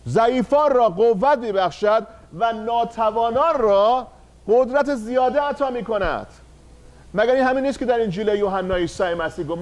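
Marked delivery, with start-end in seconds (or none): 0.1-6.3 slow, drawn-out scripture reading; slow verse recitation. Shown as a demonstration. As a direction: intone the verse slowly. Repeats the verse solemnly. (خواندن آهسته و باوقار آیه)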